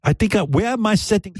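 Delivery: high, quick put-on girl voice; mock ladyboy. Ladyboy hunts for her spray, high mock voice. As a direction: play a high-pitched ladyboy searching. Impersonates ladyboy, then voice drops.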